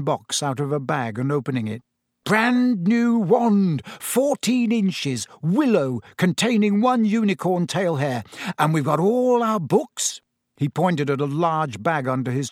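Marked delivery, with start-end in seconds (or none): 2.3-10.2 proud, high-pitched, savoring each item; showing off. A narrator's reading. Boy shows friends his new wand, proudly. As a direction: show it off, starting slow and high.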